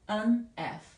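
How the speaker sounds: "An F" as a clear an ef; demonstrated phrase. Shown as a demonstration. Teacher repeats the correct article for F, careful demonstration. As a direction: say "An F" carefully, with n before the vowel. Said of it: "이렇게 표현이 됩니다".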